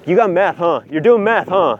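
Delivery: lightly hammed-up pressing questions; mock interrogation. Cops to the guy held on the ground, mock accusing.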